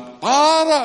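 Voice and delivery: sudden high shouted stop; retold shout. Armed drug boss's son shouting at the preacher to stop. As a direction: yell across the crowd to halt him.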